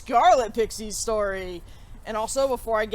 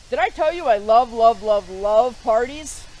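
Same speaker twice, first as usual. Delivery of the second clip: gushing excitement; 6 dB louder than usual. Acted. Gushing about parties.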